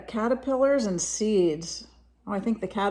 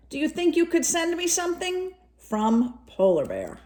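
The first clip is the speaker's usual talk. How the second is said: a hint of a higher, pleading polar bear voice; lightly voiced polar bear; 6 semitones higher than usual. Reading the bear's letter to a child, lightly voiced polar bear. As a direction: read the letter as a gentle bear asking for help.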